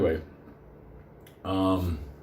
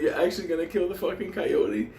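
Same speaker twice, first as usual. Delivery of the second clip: higher, amazed disbelief; asking his friend if he'll kill the coyote; incredulous question; 8 semitones higher than usual. Retold or imitated. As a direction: ask it as if he's lost his mind. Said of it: "I'm like".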